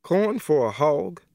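disbelieving. Acted. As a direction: throw his words back in disbelief. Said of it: "Emma repeats in disbelief".

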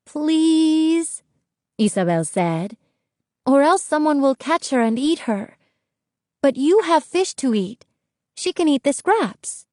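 high, urgent pleading; pleading girl. A narrator's reading. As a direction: beg him like a desperate girl. Isabel begs.

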